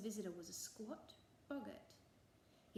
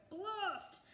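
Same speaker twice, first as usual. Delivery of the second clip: far higher, louder curse; angry shout; 12 semitones higher, 5 dB louder than usual. A narrator's reading. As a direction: let the anger burst out. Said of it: "shouted the boggart".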